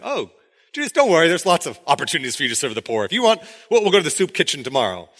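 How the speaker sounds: mock-cheerful, fast sarcasm; sarcastic. Jesus teasing Judas about the poor, sarcastic. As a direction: brush him off with fake cheer. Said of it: "I think he's being sarcastic here".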